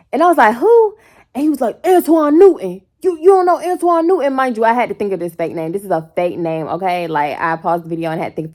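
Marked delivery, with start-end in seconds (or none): 0.5-0.9 squeaked high who; sudden high mock confusion; a bewildered yelp; high confused who. Her retold confusion. 1.9-4.3 mock offended name drop. Man name dropping.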